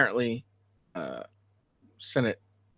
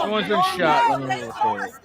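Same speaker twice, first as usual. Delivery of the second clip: sarcastic mimicry; 2 semitones higher, 5 dB louder than usual. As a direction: parody the careless filmer. Mocking bystanders filming.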